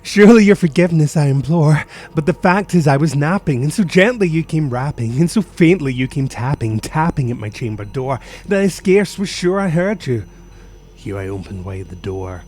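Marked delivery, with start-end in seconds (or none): 0.0-10.2 loud, higher pleading apology. Acted. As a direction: beg forgiveness of the stranger at the door. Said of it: "said I".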